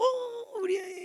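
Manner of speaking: put-on high-pitched, drawn-out coo over your own child; acted gushing delight, voice leaping up; doting parent. Parent spotting own child among many, doting coo.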